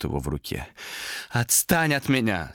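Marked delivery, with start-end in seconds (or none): 1.3-2.5 higher, slow, tearful protest; tearful cry. A narrator's reading. Томас begs the demon to leave him, tearfully. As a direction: cry out through tears, without much volume. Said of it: "сквозь слёзы крикнул он".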